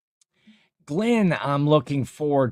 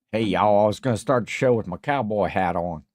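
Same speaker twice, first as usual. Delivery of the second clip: lightly put-on Southern accent; playful hint of a Southern cowboy accent; 3 semitones lower, faster than usual. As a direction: greet them like a mock Southern cowboy. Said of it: "I don't know why I'm talking like this".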